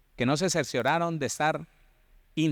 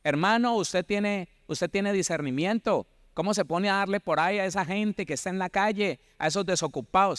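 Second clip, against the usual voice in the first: higher reproachful church member; mock scolding brother; 4 semitones higher than usual. Church member scolding the preacher, lightly raised mock reproach. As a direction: chide the preacher for giving. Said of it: "Una de ellas".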